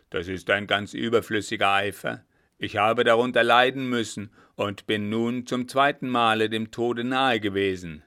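loud, aggrieved captain; indignant complaint. Acted. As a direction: complain forcefully to the coachman. Captain complains of near death. (laut und entrüstet)

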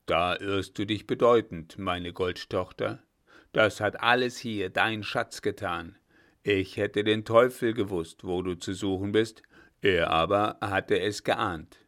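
a hint of a booming old general; old commander teasing the young lieutenant; old field marshal Blücher. Blücher voiced.

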